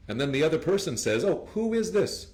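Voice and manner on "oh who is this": polite phone answer. Shown as a demonstration. Teacher acting polite phone answer.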